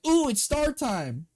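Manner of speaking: high giddy voice; excited childish squeal. Retold or imitated. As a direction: squeal it like a kid at treat time. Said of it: "I'm like".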